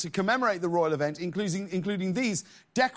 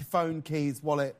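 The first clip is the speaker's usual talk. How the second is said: Jeff Bezos; 6 semitones lower than usual. Acted. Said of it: "imagine Jeff Bezos getting home from the park".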